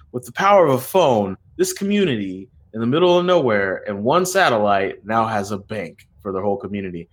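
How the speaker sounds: Andre. Retold or imitated. Retelling a phone banking pitch, comic impression. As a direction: imitate a funny talker with big pitch swells. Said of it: "should say in my Andre's voice because he talks really funny".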